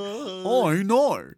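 loud, high mock-Aussie; hammed-up Australian exclamation; Australian accent. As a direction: cry it out in a broad Australian accent. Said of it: "do a passable Aussie accent".

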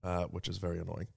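stuffy, blocked-up nose; nasal voice. Real, not acted. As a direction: talk through allergy congestion. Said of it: "if I sound all nasally".

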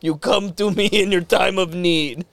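slow mob-boss pronouncement; mobster ghost. Acted. Ghost to the man waking up, slow mob boss. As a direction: weigh it out like a godfather. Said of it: "one of the ghosts".

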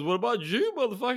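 high, loud mock-accented movie voice; yelling it out as the film character; quoting a movie character. Retelling the Hitman's Bodyguard scene in a loud movie voice. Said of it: "And he goes".

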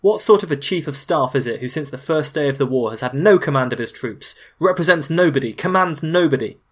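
loud, indignant dressing-down; Stalin yelling. Acted. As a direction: berate a subordinate, loud and emphatic. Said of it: "where Stalin yelled".

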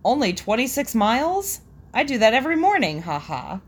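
mildly mock-boastful joke; light kidding question, then a quick quip; joking brag. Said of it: "I meant to jokingly say".

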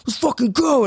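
high-pitched, fired-up retort; mad challenge. Retold or imitated. Mad kid calling for the fight, heated challenge. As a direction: imitate being raring to fight. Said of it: "I get so fucking mad".

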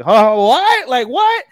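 high, loud startled yelp; mock startled cry going up high. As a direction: jump as if caught off guard. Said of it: "He gets, he gets startled".

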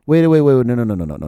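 loud rising wait wait wait, no no no; panicked, cut him off; alarmed retold outburst; frantic retold panic.

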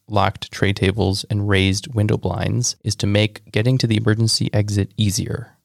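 steady presenter read; game host read-out. Acted. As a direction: read the facts like a quiz host. Reads facts over music.

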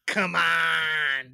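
loud, drawn-out "come on"; shouted. Acted. Host insists the bit goes in, loud shout. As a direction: holler it long in mock protest. Mock protest at leaving it out.

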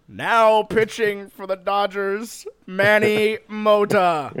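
slow, drawn-out ballpark announcer; baseball announcer. Retold or imitated. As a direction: call it like a stadium PA. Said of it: "starts calling a baseball game".

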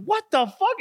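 squeaky-high startled outcry; mock shock. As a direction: send the voice way up in play disbelief. Voicing the owner's shocked reaction.

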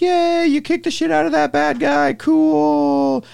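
high, excited cheer; mock crowd cheering the fight. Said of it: "the crowd's all like".

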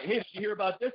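high, chirpy gossip voice; high neighbor voice. Retold or imitated. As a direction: lightly mimic the nosy neighbor. Imitating neighbor Alan again.

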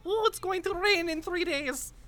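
high, slow creature voice. Acted. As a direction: croak it out like a strange little critter. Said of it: "and goes".

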